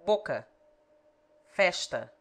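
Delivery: "Boca" and "Festa" with short Portuguese a; Portuguese example words. Shown as a demonstration. Tutor reads out Portuguese example words. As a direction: read "Boca. Festa." as a native would. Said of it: "A in but".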